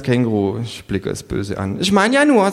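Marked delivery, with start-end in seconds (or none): 1.8-2.5 high creature voice; needling kangaroo. A narrator's reading. Kangaroo needling a rich hostess, high-pitched. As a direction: remark pointedly in a high animal voice.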